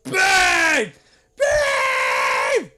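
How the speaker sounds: screeching caricature of a wife calling; hammed-up yell for a husband; generic female voice. Wife calling her husband downstairs, mock female screech. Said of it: "that's my generic female voice".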